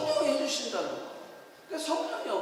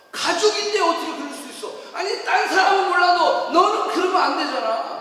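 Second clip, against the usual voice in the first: acted family quarrel, raised voice; indignant reproach; 7 semitones higher, 8 dB louder than usual. Hurt relative scolding family, indignant reproach. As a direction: push the complaint louder as it goes.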